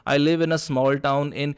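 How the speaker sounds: slow, flat word by word; "I live in a small town in" said slowly, every word the same weight; wrong flat tone. Shown as a demonstration. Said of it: "ये नहीं है कि आपकी tone इस तरीके से हो". (गलत सपाट टोन में धीरे-धीरे)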